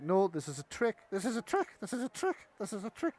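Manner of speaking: a nervous goblin repeating its warning, rising in pitch; panicky goblin. Acted. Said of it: "the goblins are like".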